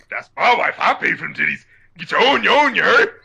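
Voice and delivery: mildly swagger through it; lightly voiced rapper impression. Quoting a rapper's brag about his wife, mildly brash. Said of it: "And then".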